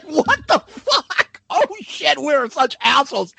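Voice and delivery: high, stretched shocked cry with a laugh; a hint of guilty surprise, laughing; mock shock. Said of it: "we were all like".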